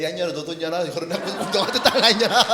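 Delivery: mother cursing her daughter, half laughing; mock cursing mother. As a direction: ham up a foreign mom cursing. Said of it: "외국인 엄마도 그러는 것 같아".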